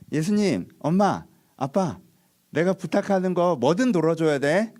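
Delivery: 조르는 아이처럼 높은 목소리로 떼쓰기; 아빠에게 무조건 들어달라고 조르는 아이 흉내; 떼쓰는 아이. Retold or imitated. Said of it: "이렇게 시작하는 거예요". (아이처럼 떼쓰며 조르기)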